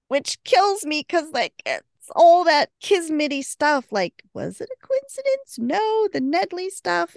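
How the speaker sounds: fangirl over the fate twist; squealing with delight at the plot; excited gushing. Real, not acted. Gushing about fated story links.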